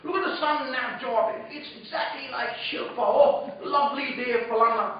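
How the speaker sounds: lightly imitated English commentator accent; a hint of a put-on English accent; Jeffrey Boycott's accent. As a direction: mimic an English accent as you exclaim. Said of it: "That's his accent that he had".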